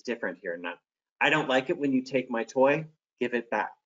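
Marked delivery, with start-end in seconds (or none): 1.2-3.7 calm assertive voice. Shown as a demonstration. Teacher showing kids the calm firm voice. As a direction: state it plainly, calm and firm. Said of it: "This is assertive voice".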